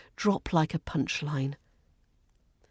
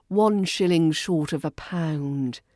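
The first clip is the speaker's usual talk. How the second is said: dry sarcasm; 2 semitones lower than usual. Shown as a demonstration. Teacher demonstrating a British jibe, dry matter-of-fact sarcasm. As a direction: state the jibe as plain fact. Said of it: "Say it with dry, matter-of-fact sarcasm".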